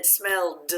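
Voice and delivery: "smelled" with a separated, voiced d at the end. Shown as a demonstration. Teacher shows students the ED sound, "smelled" ending in voiced d. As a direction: let the final d of "smelled" sound. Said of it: "I made the d sound".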